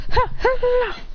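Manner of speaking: high imitated combat yelps; fighting cries. A narrator's reading. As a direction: throw out battle grunts. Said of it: "as they start fighting, going".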